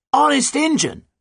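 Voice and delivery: very high, loud, emphatic oath; shouted. A narrator's reading. Pirate captain confirms her oath to the doubter, shouting. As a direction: yell it back as a firm promise. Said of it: "shouted Nancy".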